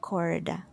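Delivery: corda with a retroflex R; English-style R. Shown as a demonstration. Teacher repeats the countryside corda, English R. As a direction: curl the R in Corda. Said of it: "the same way as the English R".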